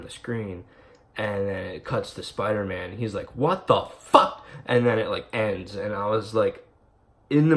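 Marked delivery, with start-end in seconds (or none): 3.4-4.4 higher, louder, slow stunned outburst; a hero caught off guard, gasping it out; shocked what the fuck. Retold or imitated. Spider-Man shocked at the reveal.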